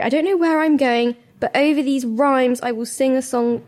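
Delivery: reading cheesy love lyrics aloud, lightly sung; hint of a crooning serenade; mock serenade reading. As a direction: read the valentine lyrics as a half-hearted croon. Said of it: "we're gonna have to read this out".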